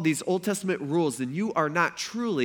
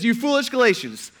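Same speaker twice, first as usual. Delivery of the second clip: trash-talking Paul; 6 semitones higher, 5 dB louder than usual. Acted. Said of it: "Paul starts off talking trash".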